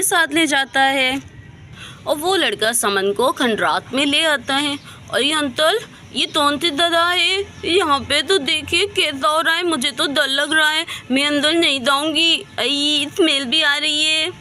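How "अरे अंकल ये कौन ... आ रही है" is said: put-on a lightly raised little girl's voice, uneasy; childlike scared girl. Little girl telling the uncle she's scared, lightly childlike and uneasy. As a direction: sound like a small child getting nervous.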